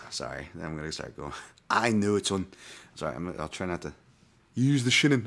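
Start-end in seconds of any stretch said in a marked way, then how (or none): 1.7-2.5 lightly voiced cartoon Scottish accent; Willie from The Simpsons. Fan lapsing back into Willie mid-apology, Scottish impression. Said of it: "Simpson, Scottish accent". 4.5-5.3 higher cartoon Scottish accent; Willie from The Simpsons. Fan relapsing into Willie while trying not to, high Scottish impression. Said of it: "Simpson, Scottish accent".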